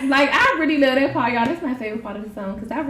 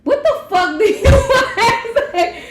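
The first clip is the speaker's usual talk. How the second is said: high, laughing, rude greeting; rude phone answer; 12 semitones higher, 7 dB louder, slower than usual. Shown as a demonstration. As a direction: snap it with a laugh. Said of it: "how you answer the phone?".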